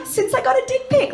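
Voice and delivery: mock solemn confession at a rehab circle; hammed-up addiction-meeting share; support group share.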